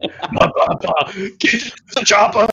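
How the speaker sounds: unhinged put-on action-movie cry; hammed-up manic movie parody; psychopath voice. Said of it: "went straight psychopath on it".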